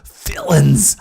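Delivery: loud, high scream of accusation; shriek. A narrator's reading. Madman shrieking at the police, furious. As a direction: scream it at them. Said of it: "I shrieked".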